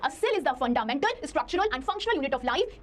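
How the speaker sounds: very slow, word by word definition; slow dictation of the cell definition. Shown as a demonstration. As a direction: dictate it so students can write. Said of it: "तो तुम बोलोगे".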